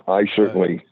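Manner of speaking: ordinary talk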